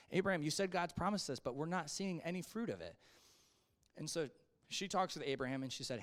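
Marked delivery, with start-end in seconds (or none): 0.1-2.9 mildly frustrated complaint, a little raised; frustrated Sarah. Acted. Wife complaining to her husband about God's promise, mildly frustrated. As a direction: lightly act out a wife's frustration. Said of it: "she's probably frustrated too".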